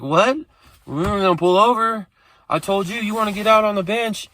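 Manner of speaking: lightly voiced girlfriend, mock panic; imitating panicked girlfriend. Girlfriend panicking about pulling over.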